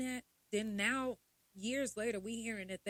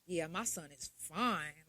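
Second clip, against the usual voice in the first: mocking parent; 5 semitones lower, slower than usual. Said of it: "I hear".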